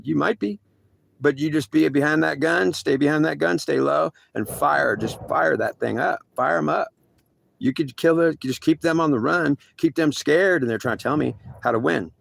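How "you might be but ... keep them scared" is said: tough coaching orders. Retold or imitated. Officers coaching him on the gun.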